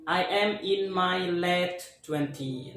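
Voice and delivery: "I am in my early twenty" said slowly, word by word; slow example sentence. Shown as a demonstration. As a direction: model it slowly for the class. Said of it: "bisa mengatakannya kayak". (ucapkan pelan dan jelas)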